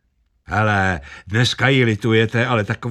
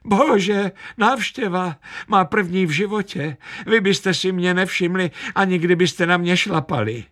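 put-on high, excited squeal of a lonely old lady; shrieking old woman; 9 semitones higher than usual. A narrator's reading. Old woman squeals to her first visitors, much higher. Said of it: "Zaječela".

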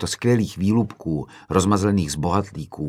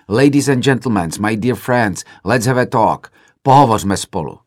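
shouting to the hall; 3 semitones higher, 7 dB louder than usual. Retold or imitated. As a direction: call out over the room to stop them. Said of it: "Křikl jsem".

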